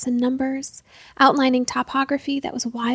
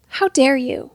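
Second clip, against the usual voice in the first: shaking voice; 5 dB louder than usual. Acted. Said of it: "her voice shaking".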